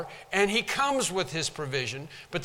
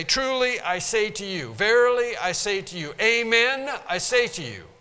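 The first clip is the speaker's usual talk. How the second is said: louder, each phrase hammered down; pulpit pounding; 4 semitones higher, 4 dB louder than usual. Shown as a demonstration. Preacher mimicking emphatic oaths, pulpit-pounding loud delivery. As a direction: pound out every phrase like a drum. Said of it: "It's like you're pounding on the pulpit".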